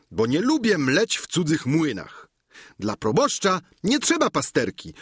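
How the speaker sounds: a simple squire chattering cheerfully to his master; Sancho the squire. Acted.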